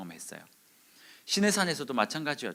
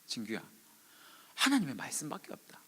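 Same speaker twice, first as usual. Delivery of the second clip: gentle answer; 7 dB quieter than usual. Retold or imitated. Voicing God's answer to him.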